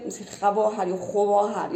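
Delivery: put-on خواهر said slowly with the old rounded w after kh, like khwāhar; dialect pronunciation. Shown as a demonstration. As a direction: draw out خواهر with a rounded khw sound.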